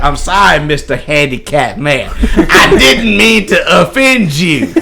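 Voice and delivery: mock-apologetic movie drill sergeant, stretched out at the end; Major Payne. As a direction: do a comic major's deliberate apology. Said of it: "Major Payne".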